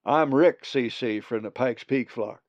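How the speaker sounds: loud drawling Western greeting; drawly accent. Acted. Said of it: "a peculiar drawly accent".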